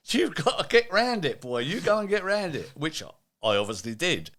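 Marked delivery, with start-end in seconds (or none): 0.1-2.7 much higher, louder insistent push; firm boss order. Retold or imitated. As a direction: drive it home like the CEO. CEO quoted urging him on.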